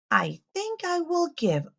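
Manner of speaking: a gentle storybook farmer, slowed down; kind farmer voice. Acted. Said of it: "he says".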